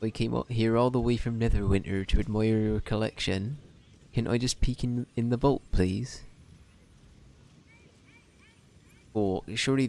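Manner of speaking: put-on generic halfling in West Country accent; a lightly done West Country voice. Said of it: "me doing West Country".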